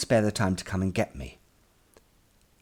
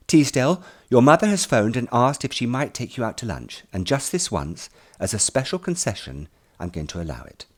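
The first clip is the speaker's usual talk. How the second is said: a lightly voiced headmaster, formal and louder; stern headmaster; 5 semitones higher, 6 dB louder than usual. Headmaster tells the boy his mother phoned, formally. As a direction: announce it like a strict headmaster granting a favour.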